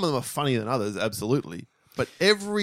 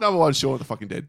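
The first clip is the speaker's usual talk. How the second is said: put-on shithouse English accent; faster than usual. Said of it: "in an English shithouse accent".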